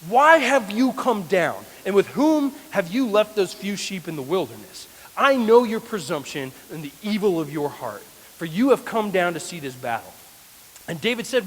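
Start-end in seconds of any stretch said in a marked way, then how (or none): 0.1-10.1 angry rebuke. Retold or imitated. Oldest brother Eliab angrily scolding young David in camp. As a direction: tell him off like an annoyed big brother. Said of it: "he angrily says to David".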